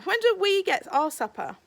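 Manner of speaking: high, loud protest; a waiter crying out, hard done by; complaining waiter. Acted. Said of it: "said a waiter".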